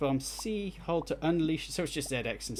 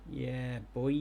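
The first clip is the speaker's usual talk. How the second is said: put-on drawn-out "boy" catchphrase; lightly mimicked wife's pet phrase; imitating wife's catchphrase. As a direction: stretch out the borrowed catchphrase. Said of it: "My wife keeps saying yeah, boy".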